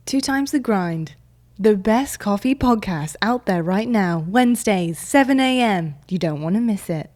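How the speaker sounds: slow, punchy ad read; advert voiceover. Pretend. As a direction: sell the podcast like a billboard ad. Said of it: "my odd voice".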